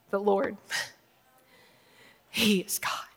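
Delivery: awed, barely voiced; hushed whisper. Preacher voices the people hushed on their faces, a reverent whisper. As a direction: whisper "The Lord, he is God" softly and reverently.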